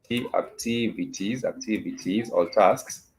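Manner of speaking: slow, measured repeat for learners; slow teaching repetition. Shown as a demonstration. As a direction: draw out "activities" slowly and deliberately. Teacher repeats translation slowly for learners.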